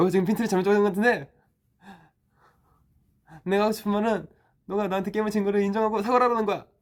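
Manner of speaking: rapid-fire, high, loud argumentative rant.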